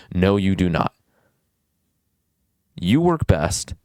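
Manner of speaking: usual speaking voice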